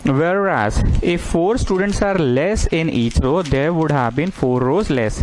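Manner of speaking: very slow, spaced dictation; teacher dictating the problem to students, very slow. Acted. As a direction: read it out slowly so everyone can write. Dictates the second case.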